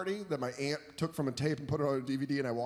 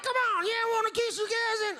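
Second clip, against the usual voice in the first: goofy; 4 dB louder than usual. Retold or imitated. Comic mock reply.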